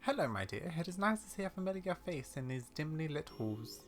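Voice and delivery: kindly, measured granny greeting; old lady character. Acted. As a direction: greet a familiar face softly.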